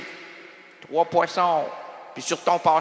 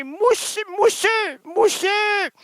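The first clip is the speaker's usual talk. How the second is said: excited shout; 10 semitones higher, 4 dB louder, much slower than usual. Acted. Comic soap description climax.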